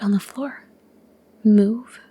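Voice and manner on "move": cold. Acted. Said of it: "Lyra said coldly".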